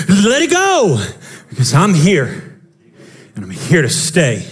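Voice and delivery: a touch of steady divine comfort; reassuring Jesus. Retold or imitated. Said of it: "he shows up and he says".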